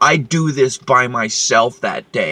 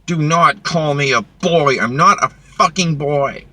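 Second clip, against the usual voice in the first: retold yell; 5 dB louder than usual. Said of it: "I yelled it so everybody could fucking hear".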